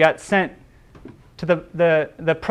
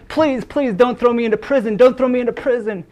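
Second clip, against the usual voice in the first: higher, pleading voice of a desperate debtor; a slave pleading with his master not to be jailed, higher and begging; 5 semitones higher than usual. Acted. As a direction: beg for mercy on your knees, pitch up. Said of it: "he begged and he said".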